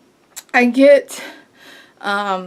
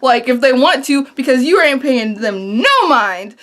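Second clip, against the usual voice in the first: sassy retort. Retold or imitated. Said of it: "I'm done being nice".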